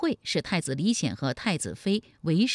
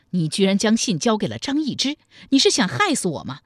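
mildly raised, angry accusation; furious; 2 semitones higher, 5 dB louder than usual. Acted. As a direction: accuse with restrained fury. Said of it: "太平公主大怒说". (大怒质问)

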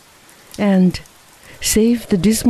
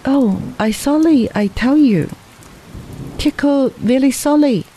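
contrite; 8 semitones higher than usual. Acted. Teco apologizing, ashamed.

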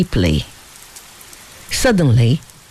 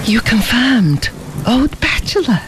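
exclaiming; 7 semitones higher than usual. A narrator's reading. Fabian reacting to his companion not liking women, exclaiming. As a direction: exclaim it in a raised voice. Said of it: "ejaculated Fabian".

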